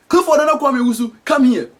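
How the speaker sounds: acted holler to another room; parent yelling. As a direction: rattle off the full name as a summons. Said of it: "they'll yell for you".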